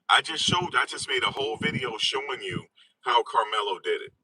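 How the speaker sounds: ordinary delivery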